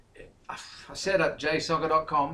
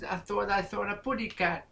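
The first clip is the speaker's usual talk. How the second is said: cartoon bird voice; 9 semitones higher than usual. Cartoon bird quote as a joke.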